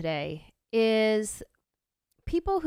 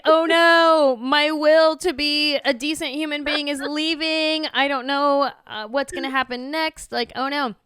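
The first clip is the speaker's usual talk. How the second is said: much louder and higher, hammed-up panic; losing control, half laughing in alarm; mock panic; 7 semitones higher, 8 dB louder than usual.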